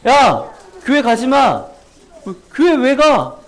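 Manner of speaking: slow scolding parent's voice, lightly done; mock the grumbling parent; parent forbidding church. Preacher to children, voicing a parent who bans church, mock scolding. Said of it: "이런 말을 하셨어".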